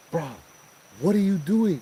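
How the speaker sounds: high, loud startled yell; startled shout. Retold or imitated. Yelling at coworker bashing a coconut, startled shout. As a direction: jump out of your skin and yell at him.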